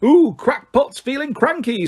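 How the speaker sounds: very high, slow sing-song mockery; leering Peeves. A narrator's reading. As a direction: taunt him like a leering poltergeist. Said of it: "said Peeves".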